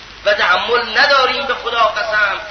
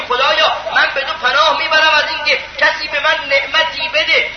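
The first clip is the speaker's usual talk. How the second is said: raised pleading prayer voice; quoted supplication; 3 semitones higher than usual. Acted. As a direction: recite the prayer with devotion. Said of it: "یکیش اینه، میگه".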